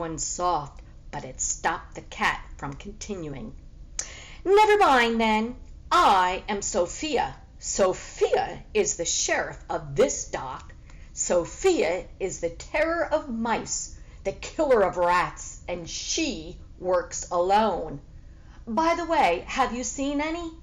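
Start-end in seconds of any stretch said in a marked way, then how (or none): 4.4-5.6 high, loud sudden retreat; startled backing off. Acted. Cat startled by the dog's growl, backs off. 5.9-20.5 boastful cat. Acted. Cat brags as sheriff.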